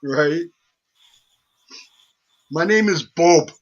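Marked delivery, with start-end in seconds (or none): 2.5-3.5 put-on slow, accented "Bob" like "boob"; mock accented caller. Mocking a caller's name, slow accented mock. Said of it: "Are you saying boob".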